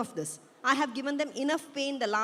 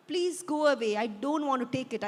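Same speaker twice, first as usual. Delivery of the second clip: pleading; 3 semitones higher, 4 dB louder, faster than usual. Acted. Refusing father's pills.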